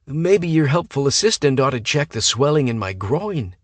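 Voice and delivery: suggestive. A narrator's reading. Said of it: "Hayden suggested".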